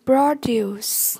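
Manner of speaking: "Produce" stressed on PRO; stress on first syllable. Shown as a demonstration. Teacher modelling vocabulary for learners, "Produce" stressed on PRO. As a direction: hit PRO in "Produce", lighter duce. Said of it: "nhấn âm một".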